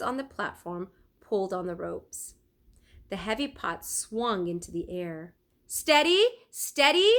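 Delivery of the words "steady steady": loud, higher calls of caution; shouted. A narrator's reading. Leonardo steadies the apprentices hauling pots, loud calls. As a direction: call out to keep the rope steady. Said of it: "Leonardo shouted".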